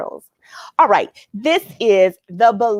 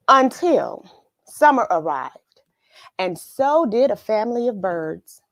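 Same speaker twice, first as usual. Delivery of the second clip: put-on lilting read-aloud for children; storybook reading. Teacher reading The Belonging Tree to viewers, lilting. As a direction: tell it like a bedtime story to little ones. Reads the picture book aloud.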